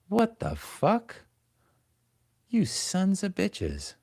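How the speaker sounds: high, slow squeaky put-on voice; mock outrage. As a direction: stretch it out in a silly high voice. Outraged at play limit.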